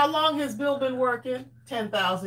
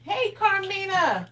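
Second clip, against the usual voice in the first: singsong greeting; 8 semitones higher than usual. Acted.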